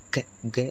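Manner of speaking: க said alone as a drawn-out syllable; letter sound க. Shown as a demonstration. Teacher showing learners the first consonant, க slowly sounded out. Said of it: "அதோட உச்சரிப்பு வந்துட்டு எப்படி வருமானா".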